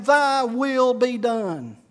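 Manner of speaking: very slow, weighty declaration; retold fervent prayer. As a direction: draw out each word in earnest surrender. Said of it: "literally on his knees, saying".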